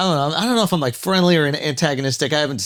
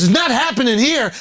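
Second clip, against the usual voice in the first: mock insistence; 3 semitones higher than usual. Driver insisting harder in retold argument.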